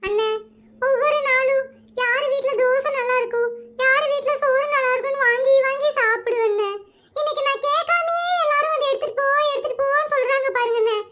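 tearful pleading complaint. Acted. Hostage tells captor why she is crying, tearful. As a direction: explain it as if close to tears. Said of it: "எதுக்கு இப்ப அழுகுற?".

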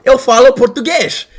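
showing off a Portuguese accent. Shown as a demonstration. Streamer proving his accent to chat, Portuguese accent. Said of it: "that was good accent".

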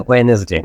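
ওয়েনেসডে in three syllables, 'we-nes-day'; wrong Wednesday pronunciation. Shown as a demonstration. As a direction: say ওয়েনেসডে with an extra 'e' after the n. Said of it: "এটাও right না". (ভুল উচ্চারণে 'ওয়ে-নেস-ডে', ন-এর পরে এ-কার দিয়ে)

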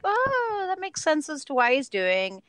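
recalling the realization about the villain, dawning realization. Retold or imitated. Let the penny drop, starting high.

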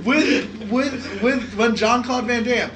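high, loud, worked-up storytelling; can't believe it, telling it big; excited. Real, not acted. Excited retelling of absurd scene.

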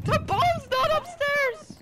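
high insistent callout. Real, not acted. Callout repeated.

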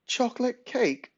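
put-on high, slow indignant old lady; elderly voice. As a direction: protest like a shocked granny. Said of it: "protested Granny".

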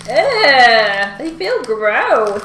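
loud, slow, grossed-out groan; disgusted. Real, not acted. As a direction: recoil at the sticky mess. Touching sticky sweets.

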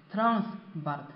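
transport with the stress on its a. Shown as a demonstration. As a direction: lean on the a in transport, teacher-style. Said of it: "这个重音在啊上面".

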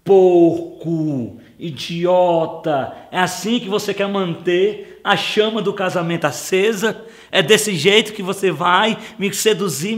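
hammed-up outraged wife scolding her husband; mock angry wife. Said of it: "ela olha pra mim e diz assim".

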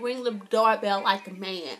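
quoting a joke while laughing; laughing through a quote. Retold or imitated. Quoting Max's joke to viewers, laughing. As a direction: let the laugh spill into the words.

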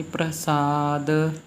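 ਪ੍ਰਸਾਦ with long aa and light short i after d; short final i. Shown as a demonstration. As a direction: release the d of ਪ੍ਰਸਾਦ into a tiny vowel. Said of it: "ਦੱਦੇ ਨੂੰ ਸਿਹਾਰੀ ਬੋਲ ਕੇ ਫਿਰ".

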